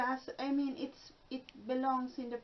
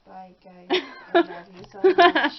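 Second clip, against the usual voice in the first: loud; 17 dB louder than usual. Acted. Mom signs off loudly.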